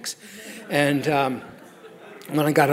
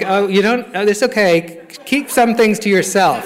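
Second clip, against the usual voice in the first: laughing protest; 5 semitones higher, 3 dB louder than usual. Retold or imitated. Horrified, brushing off sponsor's confession.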